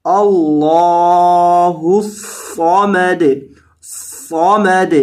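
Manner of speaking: الصمد with a thick, heavy sad and bounced dal. Shown as a demonstration. Teacher showing the heavy sad. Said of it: "صاد کو موٹا کریں گے".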